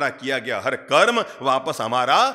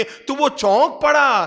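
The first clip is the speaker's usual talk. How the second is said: surprised; 9 semitones higher, 5 dB louder than usual. A narrator's reading. Child startled by echo.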